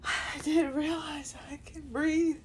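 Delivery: awed, tearful whisper. Real, not acted. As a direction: breathe it out in wonder. Realizing relief, whispered.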